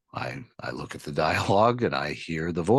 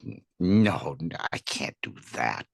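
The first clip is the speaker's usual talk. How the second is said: whispered nervous refusal; hushed and intimidated; daunted; 4 semitones lower than usual. Retold or imitated. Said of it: "And I thought".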